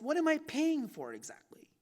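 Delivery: questioning himself. Retold or imitated. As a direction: ask it up high, wondering. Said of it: "then I ask myself".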